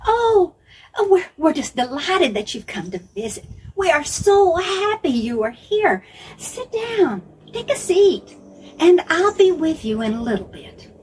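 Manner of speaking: busy hostess Martha rushing her words; fluttery hostess Martha. Acted. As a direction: bustle around a guest, all nerves. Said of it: "Martha probably said something like".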